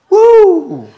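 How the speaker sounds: high, loud, slow hammed-up holler; mock passionate prayer. Pastor imitating the young man praying at the campfire, mock high shout. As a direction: ham up a wild campfire prayer, shouting to heaven. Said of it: "starts screaming and crying out to Jesus".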